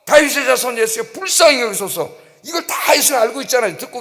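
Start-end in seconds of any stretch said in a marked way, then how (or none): 0.0-2.1 high-pitched, insistent cry for mercy; acted repeated plea. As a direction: plead once more over the crowd. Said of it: "이 사람이 한 번 더".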